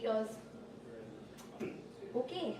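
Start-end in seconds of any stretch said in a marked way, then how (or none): 2.2-2.6 lightly voiced accented dad, curt; a hint of an unimpressed father. Dad's cool reply to grade.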